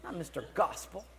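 indignant retold muttering, pitch jumping; mock grumbling. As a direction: grumble to yourself in mild exaggeration.

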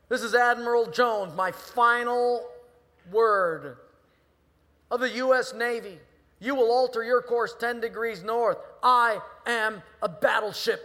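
furious high, very loud bellow; outraged commander roaring across the water; admiral on megaphone. Acted. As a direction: lay down a final order at full shout. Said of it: "he gets back on the megaphone".

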